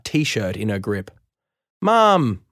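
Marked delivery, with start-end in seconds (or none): 1.8-2.4 yelling. A narrator's reading. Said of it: "I yell".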